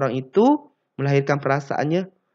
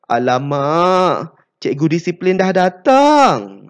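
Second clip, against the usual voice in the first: worried; 4 semitones higher, 7 dB louder, slower than usual. Shown as a demonstration. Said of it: "perasaan risau".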